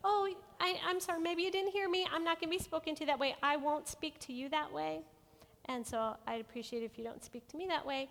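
polite persistence. Shown as a demonstration. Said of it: "There's still another room".

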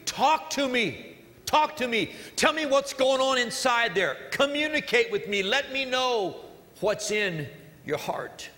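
mock emphatic pleading, slow start; emphatic plea. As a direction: beg them to open up. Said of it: "emphatically said".

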